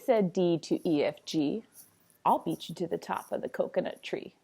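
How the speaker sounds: lilting picture-book read-aloud; story reading. Acted. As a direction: read it to little kids in a rhythmic singsong.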